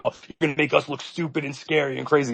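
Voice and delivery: a hint of a fretful critic; mock right-winger. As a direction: mimic a nervous scold. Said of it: "right-wingers are like".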